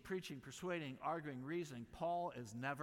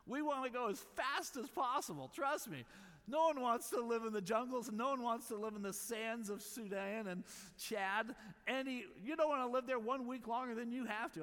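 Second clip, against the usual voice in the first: much higher and louder, pleading with urgency; impassioned protest; 9 semitones higher, 6 dB louder than usual. Real, not acted. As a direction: plead it, voice climbing high and loud. Passionate rebuttal, high and loud.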